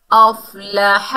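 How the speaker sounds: अफ़लाह drawn out slowly, hamza joined to fa; slow Quranic recitation. Shown as a demonstration. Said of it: "हमज़ा को फ़ा से मिलाएंगे". (धीमी तिलावत में अफ़लाह)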